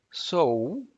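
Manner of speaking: sou with the full ou diphthong sounded out; spell-out sou, every vowel voiced. Shown as a demonstration. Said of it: "is what you're gonna hear".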